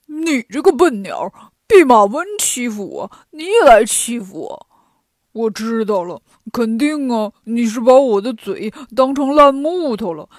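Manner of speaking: loud, aggrieved pig character; indignant Pigsie. A narrator's reading. Pigsie scolding the woodpecker that pecked him, indignant. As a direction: scold the bird like a put-upon pig.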